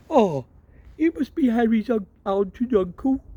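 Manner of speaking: cheerful after the blast; lightly voiced father. Father greets relatives after blast.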